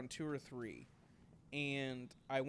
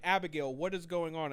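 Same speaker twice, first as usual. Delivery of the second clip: louder, mildly indignant demand; retold anger; 3 semitones higher, 4 dB louder than usual. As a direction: demand an explanation, mock mad. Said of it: "I'm, like, getting mad".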